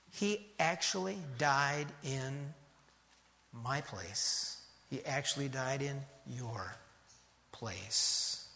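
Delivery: hushed solemnity. Real, not acted. Solemn climax of the sermon.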